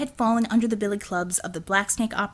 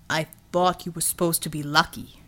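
groaning; 4 semitones lower than usual. Acted. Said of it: "Matai groaned".

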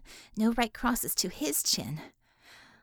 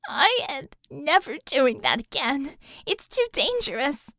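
tearful vow; 3 semitones higher, 4 dB louder than usual. Acted. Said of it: "She choked on another sob".

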